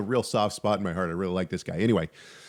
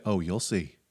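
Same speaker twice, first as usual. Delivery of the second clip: hint at a dark secret quietly; low, soft mock-ominous warning; ominous you'll see; 5 semitones lower, 6 dB quieter than usual. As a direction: lower and softer, knowing and foreboding. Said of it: "he just said".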